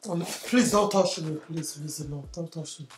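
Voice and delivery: real upset. Real, not acted. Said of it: "She's crying".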